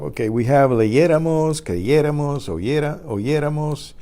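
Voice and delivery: puzzled student voice. Pretend. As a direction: play the confused learner asking why. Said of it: "Now you might be asking yourself".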